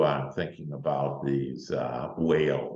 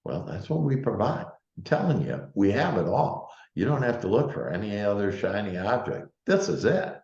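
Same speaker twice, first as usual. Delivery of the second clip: excited; 5 semitones higher than usual. Real, not acted. Sales pitch building up.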